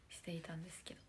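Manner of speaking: sentence ending trailed off in a whisper. Real, not acted. Whispering while telling fans about the senior's song. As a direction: let the end fall to a breathy whisper.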